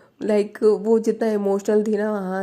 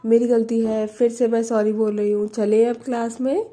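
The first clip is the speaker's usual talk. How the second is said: louder and higher, curt annoyed sorry; retold irritated apology; 5 semitones higher, 5 dB louder than usual. Baani apologising to Prachi, loud grudging irritation.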